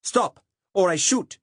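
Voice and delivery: put-on loud, high, slow threat in Saxon accent; a young conscript threatening to fire; Saxon German accent. Saxon cop threatening to shoot the narrator, loud Saxon accent. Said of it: "in that unmistakable accent".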